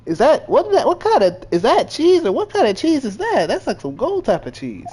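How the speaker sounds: excited. Real, not acted. Baffled outburst at giant cheese.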